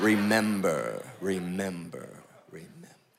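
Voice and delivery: very low voice sinking and fading out. Retelling the scene where Mufasa fades into the clouds: fading Mufasa voice. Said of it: "Mufasa like fades back into the weather".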